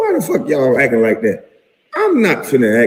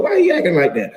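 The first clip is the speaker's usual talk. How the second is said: laughing through the words; giggling while asking; 11 semitones higher, 4 dB quieter than usual. Real, not acted. Laughing at his own story.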